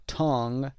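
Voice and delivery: "tongue" with short uh and final ng; short uh, nasal ending. Shown as a demonstration. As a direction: say "tongue" as tung. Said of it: "صدای آ کوتاه".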